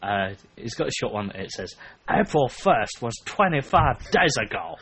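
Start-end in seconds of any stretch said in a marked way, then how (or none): 2.1-4.8 higher, choppy imitation Singaporean accent; put-on Singaporean accent, guessed at; mock Singaporean accent. Reading a Singapore man's comment aloud, mock Singaporean accent. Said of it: "do a Singaporean one".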